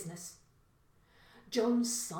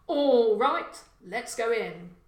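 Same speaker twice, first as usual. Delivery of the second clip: 1 eager go; 3 semitones higher, 11 dB louder, slower than usual. Acted. John starts the break-in.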